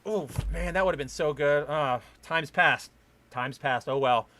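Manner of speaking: a normal person shrugging off a missed comeback; resigned shrug. Retold or imitated. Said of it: "a normal person goes".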